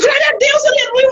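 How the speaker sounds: high-pitched imitated church exclamation; congregation's praise cry. (brado agudo de louvor, imitado)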